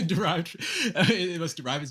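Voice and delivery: premise read through giggles; can't keep a straight face on the premise; laughing while reading. Real, not acted. Debater reading his syllogism, breaking into real laughter.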